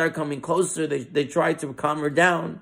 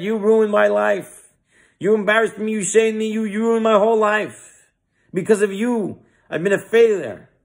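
raised, higher mock-shouted accusations; angry accusing scream; 6 semitones higher than usual. Angry woman accusing the speaker before the crowd, shouting. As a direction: lash out at her, wounded and furious. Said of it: "started to scream at the speaker".

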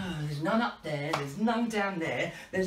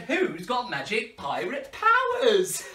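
slow, louder, laughing repeat; 3 semitones higher, 3 dB louder, slower than usual. Shown as a demonstration. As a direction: ask again, pushing them to answer. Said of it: "I said".

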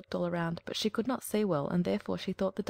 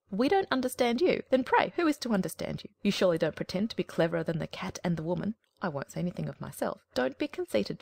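indignant hen. Acted. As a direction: scold like an offended know-it-all hen. Hen scolds the duckling.

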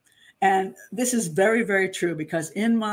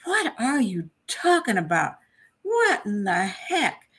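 incredulous; 3 semitones higher, slower than usual. Retold or imitated. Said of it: "And I'm like".

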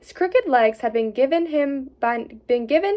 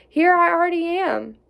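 whisper; 6 semitones higher than usual. Acted. Instructing wife what to cry.

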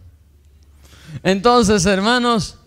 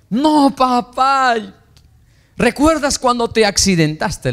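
high, slow pleading; pleading with father; 9 semitones higher, slower than usual. Retold or imitated. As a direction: beg him gently to remember.

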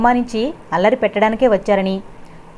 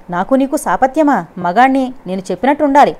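higher, louder order that cracks thin; commanding, shrill voice; 4 semitones higher, 3 dB louder than usual. Acted. Husband ordering his defiant wife, shrill commanding. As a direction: bark it like a master whose voice squeaks. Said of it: "అన్నాడు ఆజ్ఞాపిస్తున్నట్టు".

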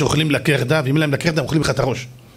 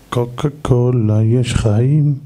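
slow, lower mock advertising read; advert slogan; 4 semitones lower, 3 dB louder, much slower than usual. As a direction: draw out the slogan like a commercial. (קריאת סיסמת פרסומת, לאט ובקול נמוך)

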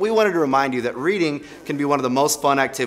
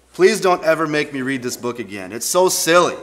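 exasperated complaint; 2 semitones higher, 4 dB louder than usual. Real, not acted. Embarrassed complaint.

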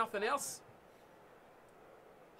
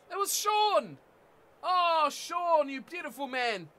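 excited cheering; 4 semitones higher, 4 dB louder, slower than usual. Real, not acted. Celebrating teammate's play.

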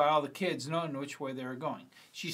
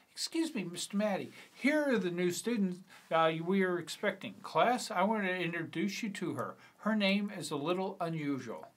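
a lightly voiced school principal, opening high on excuse; a hint of a formal principal interrupting class; 3 semitones higher than usual. Principal introducing a new student to the teacher, lightly voiced formal principal. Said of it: "let's do a principal voice".

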